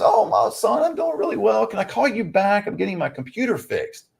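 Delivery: playfully voicing his sweet mother; imitating mom. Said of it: "She goes".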